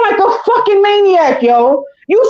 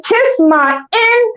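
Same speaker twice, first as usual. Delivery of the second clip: Vera quote; 5 semitones higher, much slower than usual. Retold or imitated. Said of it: "just like Vera said it in Harlem Nights".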